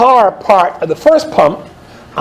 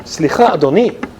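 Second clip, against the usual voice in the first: polite Californian. Retold or imitated. Wife politely asks the scooter rider to notice them, gentle rising ask. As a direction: ask sweetly and politely in Hebrew. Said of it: "she said".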